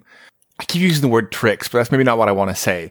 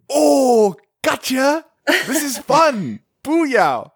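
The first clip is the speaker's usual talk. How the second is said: much higher, gloating nerd glee with a laugh; gleeful teasing; 11 semitones higher, much slower than usual. Retold or imitated. Players at the table crowing at their friend, gleeful teasing. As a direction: crow over him like you got him.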